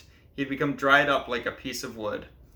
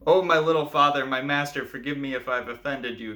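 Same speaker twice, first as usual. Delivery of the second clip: pleading cry. Acted. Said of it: "cried the poor fellow from above".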